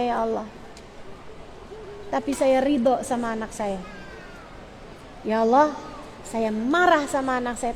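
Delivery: subdued plea to God; demonstrating a restrained, heartfelt prayer; model prayer. Shown as a demonstration. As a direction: confess softly, as a parent praying. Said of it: "kamu doanya kayak gini".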